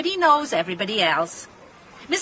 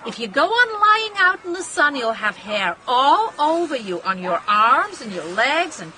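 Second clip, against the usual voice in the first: animated motherly warning; retold scolding; 3 semitones higher than usual. Wife retelling her warning to her daughter, animated scolding.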